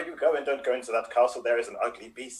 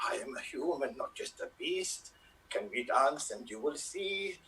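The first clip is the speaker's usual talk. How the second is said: whispering; 5 dB quieter than usual. Acted. Beast pleading for love.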